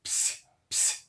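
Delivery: psi breathed out unvoiced, P and S both heard; voiceless psi; whispered psi. Shown as a demonstration. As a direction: hiss out psi with the P sounded. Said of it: "é uma consoante dupla".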